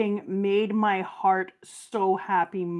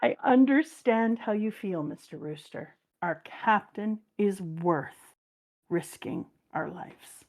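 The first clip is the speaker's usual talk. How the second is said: tender slow reread; slower than usual. Retold or imitated. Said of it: "I was just like".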